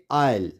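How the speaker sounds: आइल as eye-l; silent S. Shown as a demonstration. Teacher reads aisle for students, silent S. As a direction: say आइल with no s, falling. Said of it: "क्या पढ़ेंगे".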